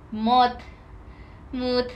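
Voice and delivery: mood stretched out like English; reading mod as mood. Shown as a demonstration. Streamer reading the chat word as Mood. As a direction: say Mood with a long oo. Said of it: "pues yo leí mood".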